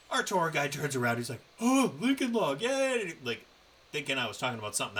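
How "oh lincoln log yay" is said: high, loud imitation of delight; mock glee. Podcaster imitating the tour guide overhearing, high gleeful cheer. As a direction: squeal it like an overjoyed tour guide.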